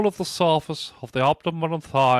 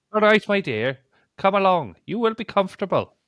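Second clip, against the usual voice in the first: amateur put-on Irish accent, pitched up; 5 semitones higher than usual. Retrying the quoted line from a witness statement: Irish accent.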